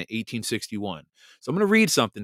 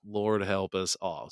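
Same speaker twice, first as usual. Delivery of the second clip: softer, slow comic sigh of resignation; subdued mock lament; 2 semitones lower, 5 dB quieter, slower than usual. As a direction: say it quietly, drawn out in playful resignation.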